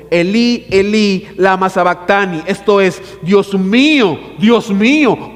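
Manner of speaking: preacher voicing Jesus' loud cry. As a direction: call out Jesus' cry from the cross. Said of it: "clamó a gran voz".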